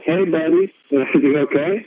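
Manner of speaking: lilting, mock-gentle question; concerned doctor. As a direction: imitate a doctor carefully checking on someone. Doctor gently checking on him.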